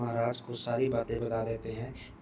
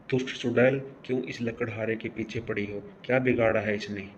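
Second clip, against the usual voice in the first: angry rebuke; faster than usual. Acted. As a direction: confront the wicked witch. Healer confronts the witch.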